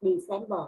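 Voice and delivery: "December" with an audible B after the M; sounded B. Shown as a demonstration. Teacher showing students the pronounced letter, clear B in "December". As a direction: say "December" voicing the B. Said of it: "có âm B".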